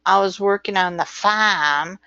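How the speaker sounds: imitated Australian, R dropped in farm; Australian-style open vowel on farm; Australian accent. Shown as a demonstration. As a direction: lightly mimic an Australian accent. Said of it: "they don't pronounce the R".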